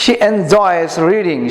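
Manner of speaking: slow, careful English read-aloud for pupils. Shown as a demonstration. Teacher reading slowly to the class. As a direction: read each word slowly so students copy. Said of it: "উচ্চারণগুলো খেয়াল করবা".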